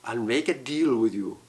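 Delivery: a hint of a low sly old farmer; understated creepy little man; lightly voiced strange little man. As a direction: make the deal slyly and low.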